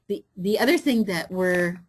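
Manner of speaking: faint, breathy sound off the mic; mic cutting out. Real, not acted. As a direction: voice dropping off the microphone. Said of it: "adjusting the sound, is that better?".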